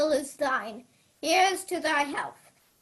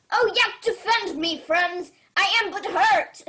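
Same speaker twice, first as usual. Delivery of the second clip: higher, loud cries for help; desperate plea; 4 semitones higher, 5 dB louder than usual. Acted. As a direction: beg the court to save him. Wounded king calls for help.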